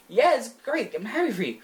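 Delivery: high, forced fake cheer; passive aggressive. Dumped boy congratulating his rival with forced fake cheer. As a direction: grit out congratulations you don't mean. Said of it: "really passive aggressive".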